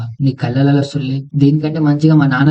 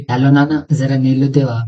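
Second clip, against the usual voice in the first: mock loving plea to daddy; with love. Calling friend daddy for water, mock-affectionate. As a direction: sweeten it like a fond child. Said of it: "ఫుల్లిగా ప్రేమతో పిలు".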